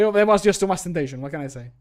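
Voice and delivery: normal talking voice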